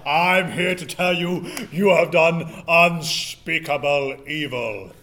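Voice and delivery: solemn spirit voice. Pretend. Conch spoker ghostly role.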